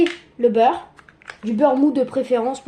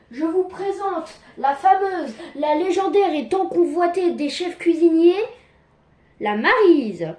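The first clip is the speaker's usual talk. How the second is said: mock-grand presentation; 2 semitones higher than usual. Presenting a kitchen spatula to viewers as a legend, mock-grand. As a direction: build up the reveal like a show host.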